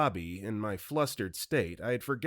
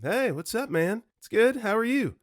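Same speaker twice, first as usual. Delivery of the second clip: stoned Woody; 11 semitones higher, 5 dB louder than usual. Retold or imitated. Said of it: "he responded with".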